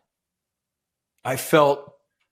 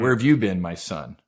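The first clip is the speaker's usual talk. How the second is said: a tender father's question, lightly voiced; loving God; 4 semitones lower than usual. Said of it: "it was very loving".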